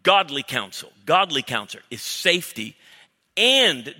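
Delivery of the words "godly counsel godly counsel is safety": "godly" hit loud against plain counsel; louder, emphatic "godly"; stress on godly. Shown as a demonstration. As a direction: punch "godly" before "counsel". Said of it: "Not just counsel".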